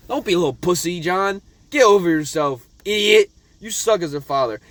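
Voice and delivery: half-joking angry rant; mock scolding. Real, not acted. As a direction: chew out the dad. Scolding the dad character.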